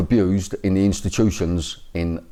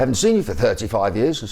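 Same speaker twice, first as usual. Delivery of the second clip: Prince Charles voice; 3 semitones higher than usual. Retold or imitated. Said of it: "So he speaks like that".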